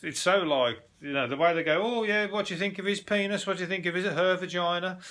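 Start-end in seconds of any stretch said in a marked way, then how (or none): 1.8-5.0 higher-pitched mock matter-of-fact chat. Dating show talk about naked bodies, imitated matter-of-fact. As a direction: imitate someone casually asking an opinion. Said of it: "so matter of fact".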